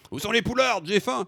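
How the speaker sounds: high-pitched loud holler; boorish bellow. Acted. Host capping the song with the catchphrase, boorish bellow. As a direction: yell the catchphrase like a lout. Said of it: "tu gueules dans le resto".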